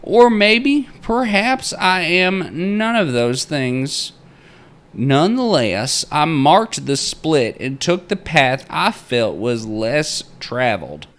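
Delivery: high, loud-edged theatrical proclaiming; old-time miner's journal. Acted. Narrator reading the miner's journal entry aloud, theatrical miner voice. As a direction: read it out like a grandiose frontier diarist.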